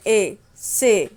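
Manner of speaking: ए and से stretched very slowly; slow diphthong demo. Shown as a demonstration. Teacher stretching ए, से slowly for learners. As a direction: hold the ए glide in से. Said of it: "वो ए की आवाज़ देते हैं".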